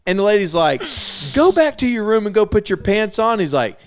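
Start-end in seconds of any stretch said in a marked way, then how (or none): 1.3-3.4 high-pitched mock scolding; imitated scolding order. Lady sends naked resident to his room, mock scolding. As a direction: order him off in a raised pitch.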